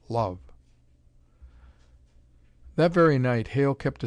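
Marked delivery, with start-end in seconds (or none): 0.1-0.4 whispered. A narrator's reading. Scientist savours the word.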